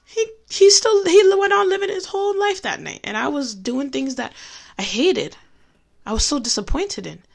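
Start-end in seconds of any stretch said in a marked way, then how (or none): 0.0-3.0 choked up. Real, not acted. Emotional sermon about her father.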